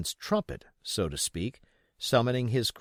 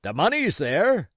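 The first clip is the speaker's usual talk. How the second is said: loud, high answer; pirate reply; 8 semitones higher, 8 dB louder than usual. Acted. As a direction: call it down.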